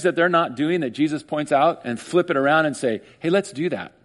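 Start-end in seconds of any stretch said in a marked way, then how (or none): 3.2-3.9 laughing. Real, not acted. Preacher laughs at flip.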